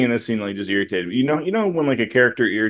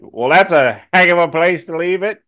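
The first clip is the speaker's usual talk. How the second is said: dry scolding; 7 semitones higher, 6 dB louder than usual. Retold or imitated. Villagers mock-scold Tyree.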